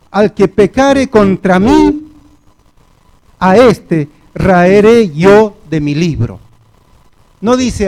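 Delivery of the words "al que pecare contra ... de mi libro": louder, slow and weighty; booming divine verdict. Retold or imitated. God answering Moses, a loud, slow proclamation. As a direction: pronounce God's judgment slowly, full force. God's stern reply to Moses.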